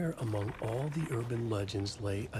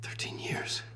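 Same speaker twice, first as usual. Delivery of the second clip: whisper. Acted. Stunned realisation of lost time.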